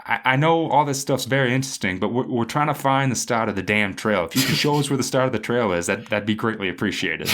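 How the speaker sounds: loud, insistent impression of a blunt friend; imitating a loud, impatient buddy; Toad. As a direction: cut him off loudly, pushing to get going. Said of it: "this is my best Toad impression".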